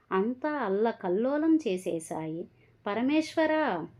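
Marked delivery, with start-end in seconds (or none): 2.9-3.9 high, slow anguished cry; crying out to God. Acted. The old man cries out to God as the wall collapses, high and slow. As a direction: call out to God in despair. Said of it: "బిగ్గరగా అరిచాడు".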